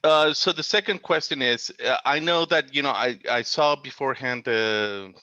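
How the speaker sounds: choppy audio, words dropping out; radio breaking up. Real, not acted. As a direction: signal cutting in and out. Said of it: "Yep, you're cutting out again".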